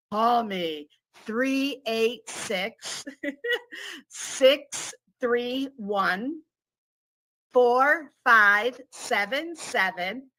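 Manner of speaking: slow, sultry number read; sexy voice. Pretend. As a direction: purr the digits out slowly. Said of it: "I can repeat it in my sexy voice".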